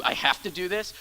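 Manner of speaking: "I have to do this" said as a reluctant chore, rising at the end; have-to grudging. Shown as a demonstration. Pastor showing a have-to attitude, grudging tone. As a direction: sound like it's a burden. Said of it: "a have to".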